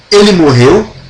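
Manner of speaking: "Ele morreu" as a question, rising at the end; entonação de pergunta. Shown as a demonstration. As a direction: ask "Ele morreu" through intonation alone. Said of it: "fazendo com entonação". ("Ele morreu" em tom de pergunta)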